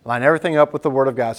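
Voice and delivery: fast, punchy restatement; preacher drilling the point into the church; quick emphatic repeat. Shown as a demonstration. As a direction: rattle it off again to drill it in.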